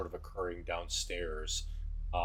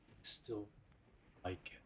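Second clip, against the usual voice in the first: much softer, almost inaudible; low, barely audible; 12 dB quieter than usual. Acted. Irina quietly answers her brother after a long pause, barely audible. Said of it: "kinda low and, and barely able to hear it".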